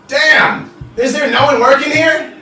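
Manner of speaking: high, loud bar-room complaint; exasperated shout. Acted. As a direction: holler it, fed up with no service. Officer fed up with no service.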